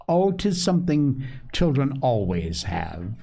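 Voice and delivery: measured storybook reading; story narration. A narrator's reading. Host reads a family tale to listeners, story narration. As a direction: read the story aloud, acting out each figure.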